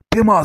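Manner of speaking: emphatic "ফেমাস" trailing into sustained sss; long S. Shown as a demonstration. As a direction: hold the s at the end of "ফেমাস". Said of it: "এসটা অনেকক্ষণ ধরে বলতে হবে".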